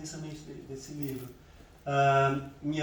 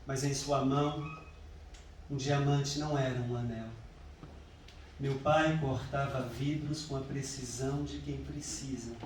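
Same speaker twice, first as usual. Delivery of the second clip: measured poem recital with long pauses; unhurried, deliberate verse reading; poetry reading. Acted. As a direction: recite it line by line, letting each pause hang. Reads own poem aloud.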